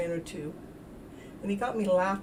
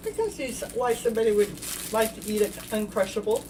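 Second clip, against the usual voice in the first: mouth full. Real, not acted. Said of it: "Now I got my mouth full".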